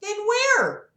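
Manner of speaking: high, singsong doctor voice; Sarah Palin. Acted. Doctor questioning her patient about God, high put-on voice. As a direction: pitch it well up, lilting questions. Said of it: "We'll just do Sarah Palin".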